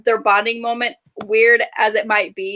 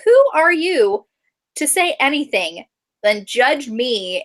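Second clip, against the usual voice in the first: higher, slow, indignant mock retort; 3 semitones higher, slower than usual. Telling off the judgmental women, mock indignant. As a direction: drag it out, offended and challenging. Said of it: "I'm like".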